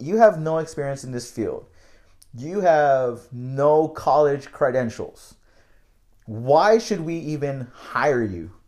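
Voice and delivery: impatient, irritated, dismissive, put-out tone. Retelling a job rejection, quoting the manager: mock-irritated manager tone. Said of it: "it was like an irritated, you know, tone".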